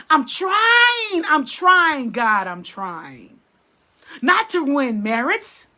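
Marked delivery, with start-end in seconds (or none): 0.1-2.1 tearful plea. Real, not acted. Preacher pleads tearfully to God. 2.1-3.4 hushed prayer. Real, not acted. Preacher prays softly after crying out.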